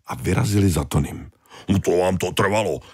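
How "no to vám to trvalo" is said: annoyed Tony. Acted. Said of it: "vyhrkl naštvaně Tony".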